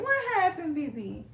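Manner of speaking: high, sing-song pet talk. Real, not acted. Talking baby talk to her cat.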